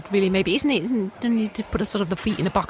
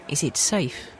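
Marathon Man quote; 5 semitones lower, 3 dB quieter, slower than usual. Retold or imitated. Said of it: "that was in Marathon Man".

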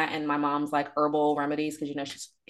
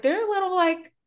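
mock sing-song warning. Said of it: "I was like".

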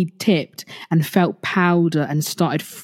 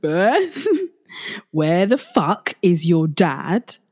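mock shout; slower than usual. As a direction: call the name out in mock alarm, half laughing. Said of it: "my partner shouts".

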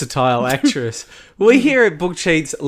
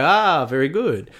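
polite chuckle. Retold or imitated. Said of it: "You go".

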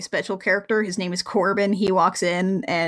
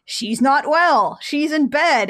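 slow, higher, hammed-up villain's retort; mock haughty excuse; 6 semitones higher, 3 dB louder, slower than usual. Host voicing Lexa excusing the princess, mock haughty. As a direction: stretch each word in a put-on voice.

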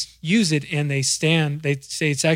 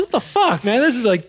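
much higher disbelieving cry; retelling outrage at hearing the mix alone; mock outrage; 8 semitones higher, 3 dB louder than usual. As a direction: act stunned by the playback. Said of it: "I'm like".

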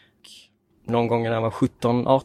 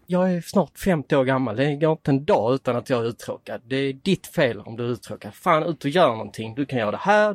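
retold father's scolding; 3 semitones higher than usual. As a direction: scold like an irritated dad at dawn. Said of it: "blev fly förbannad".

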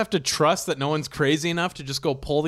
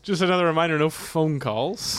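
airline captain voice; 4 semitones higher than usual. Acted. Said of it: "the pilot announcing".

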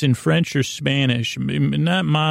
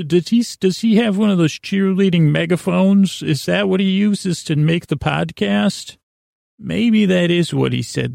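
slightly higher-pitched, puzzled questioner in a mock conversation; pretend breakfast chat; 5 semitones higher than usual. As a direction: play someone idly speculating over breakfast. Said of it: "that would be a breakfast conversation".

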